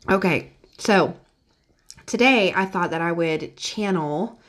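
just after a sip of coffee; while sipping a drink. Real, not acted. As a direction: talk right after swallowing a sip. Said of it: "let me take a sip".

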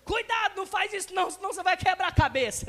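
put-on old-fashioned parent's alarmed warning. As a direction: scare the kid off it. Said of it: "os pais da gente antigamente falavam isso".

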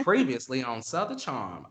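recap-style voiceover; show narrator intro. Acted. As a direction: narrate it like a reality show opener. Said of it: "Lauren Conrad narrates The Hills".

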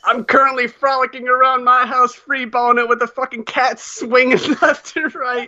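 high, put-on prissy lady voice; high mock woman voice. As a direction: keep the pitch up and prim like a fussy lady. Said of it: "the voice you did that in".

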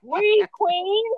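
high, loud, drawn-out cheer; retold cheer. Cheering on a blunt older woman, high drawn-out hype.

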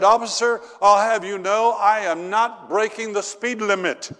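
put-on high, loud huffy old lady; indignant old lady. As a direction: play the offended granny telling off the officer. Indignant elderly lady to patrolman.

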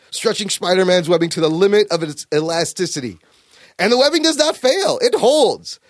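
storyteller reading out comic-book narration; dramatic comic narration. Acted. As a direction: read the caption with measured drama. Reads comic narration aloud.

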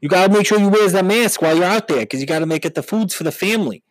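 a pleading dumb husband voice; Long Island husband. Acted. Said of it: "he's like".

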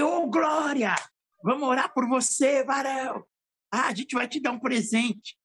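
high, bright burst of "Glória"; excited praise. Retold or imitated. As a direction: cheer him on with joyful excitement. Pastor's excited reply to the man.

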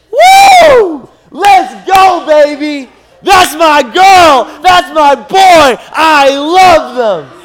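high, loud, drawn-out whooping cheer; wildly cheering dad. Acted. God cheering over your life, wildly excited shouting. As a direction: yell like a pumped parent in the stands.

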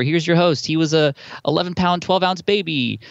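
booming radio announcer intro. Retold or imitated. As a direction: introduce the host like a voiceover pro. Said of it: "I have the voiceover guy".

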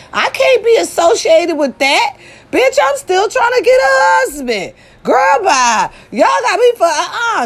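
high, shouting laugh-talk; laughing outburst. Real, not acted. Laughing outburst about husband.

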